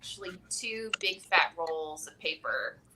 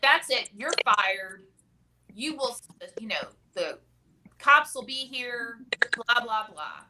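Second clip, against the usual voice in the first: retold angry outburst; 3 semitones higher, 5 dB louder than usual. Supervisor fires the paperboy, a loud, mock-angry yell. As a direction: play the furious manager firing the kid. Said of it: "amps up her anger".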